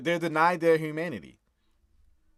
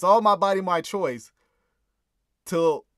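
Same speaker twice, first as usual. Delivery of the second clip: mock slogan; 5 semitones higher, 9 dB louder than usual. Mocking slogan, loud.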